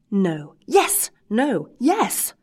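put-on squabble like two stubborn old men; childish bickering. Bickering yes-no quarrel.

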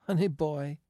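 high, lightly amused exclamation; laughing cry. A narrator's reading. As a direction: call it out with mild amusement. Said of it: "cried Marcia, laughing".

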